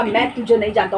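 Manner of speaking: lightly voiced solemn rejection; God disowning. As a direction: drop the voice as God turns away. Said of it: "परमेश्वर बोलेगा".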